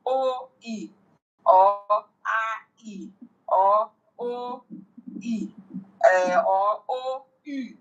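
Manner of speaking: each of O, E, A, U held apart; drawn-out vowels like O and E, one by one; vowels sounded separately. Shown as a demonstration. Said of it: "pronounced with their own specific pronunciation, sound".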